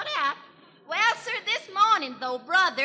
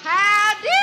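loud hearty howdy; 4 semitones higher, 7 dB louder than usual. Acted. Comedian greets the Opry crowd.

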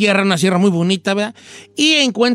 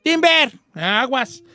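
shouted timber; 4 semitones higher, much slower than usual. Shown as a demonstration. Lumberjack warning the crew that a tree falls, shouted. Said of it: "tienes que gritar".

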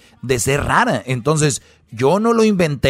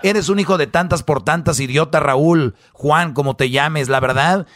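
mock angry wife. Long acted rant of angry wife.

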